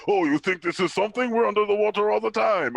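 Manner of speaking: lightly put-on accent for Atlanteans; Namor's people. Co-host mocking Namor's people showing up, put-on accent. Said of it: "why he has that accent".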